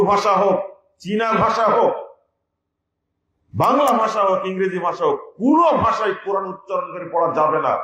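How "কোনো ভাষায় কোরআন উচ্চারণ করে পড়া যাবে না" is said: forceful ruling, কোনো stressed; preaching shout. Real, not acted. Preacher forbidding Quran in transliteration, shouted ruling. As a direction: shout the ban to the whole hall.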